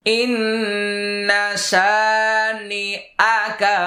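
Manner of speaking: ইন্না held, শানিআকা drawn out; teacher recites the correct way; slow recitation. Shown as a demonstration. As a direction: recite slowly, hold the ghunna. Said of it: "অনেকে কিন্তু দুইটাই উল্টাপাল্টা করে".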